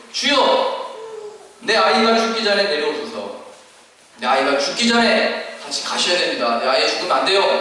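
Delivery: cling to his legs and beg; desperate plea. Acted. Father pleading with Jesus for his dying child, frantic. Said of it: "다급한 건 이제".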